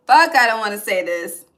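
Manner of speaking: loud groaning protest at having to say it; frustrated outburst. Real, not acted. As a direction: blurt it out, fed up and reluctant. Reluctant to deliver message.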